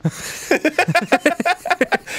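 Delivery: a bright high laugh. Real, not acted. Laughing high at the glasses story.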